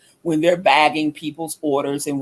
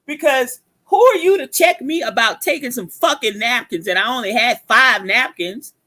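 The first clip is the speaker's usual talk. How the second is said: indignant mock rant, higher pitched; retold livid outburst; 6 semitones higher than usual. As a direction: replay your outrage at being challenged. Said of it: "I was livid at that point".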